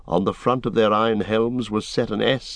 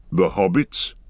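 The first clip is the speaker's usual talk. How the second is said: alarmed cry. Acted. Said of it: "cried Gimli".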